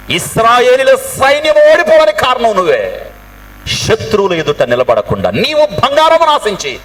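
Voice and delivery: high, forceful denunciation; acted angry accusation. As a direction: accuse the culprit before everyone. Preacher voices accusation against Achan.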